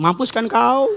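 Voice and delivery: lightly imitated Batak accent, lifting on the last word; Batak parent. Batak parent to a fallen child, mild mock scolding in Batak accent. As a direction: mimic a Batak parent's rebuke. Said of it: "Kalau orang tua Batak gitu".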